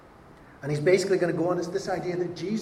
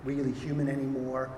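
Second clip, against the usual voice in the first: mock Witness; 3 semitones lower, 5 dB quieter than usual. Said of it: "Jehovah's Witnesses will talk to you".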